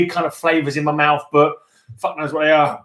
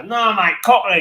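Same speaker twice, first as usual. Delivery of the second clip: put-on Cockney accent; 2 semitones higher than usual. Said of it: "because we got Cockney accents".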